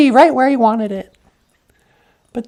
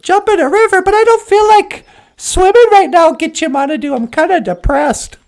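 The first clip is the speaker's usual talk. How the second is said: higher whiny protest; whiny reluctance; 3 semitones higher than usual. Acted. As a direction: whine that you don't want to swim. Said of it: "And Amik was like".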